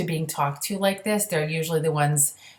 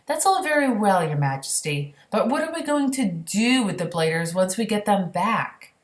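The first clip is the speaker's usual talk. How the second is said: miffed; 4 semitones higher than usual. Acted. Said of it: "feeling pretty miffed".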